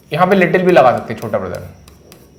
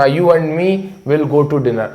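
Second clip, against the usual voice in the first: wrong version slowly; 2 semitones lower, much slower than usual. Shown as a demonstration. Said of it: "ये भी मैंने कई बार लोगों को सु-, कहते सुना".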